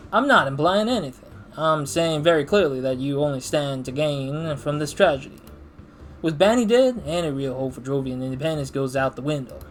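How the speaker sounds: firm accusation. Acted. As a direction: lean in hard on the accusation. Voiced game dialogue argument.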